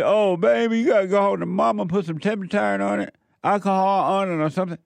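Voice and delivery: high, fast mock-doting parent voice; soothing parent. What dad never said to his hurt boy, high mock-doting coo. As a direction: coo it like a fussing mama. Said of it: "He didn't say".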